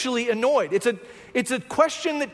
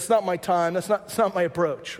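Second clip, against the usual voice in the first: a hint of a calm Jesus; 5 semitones lower than usual. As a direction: let it settle low and steady. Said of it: "And Jesus says".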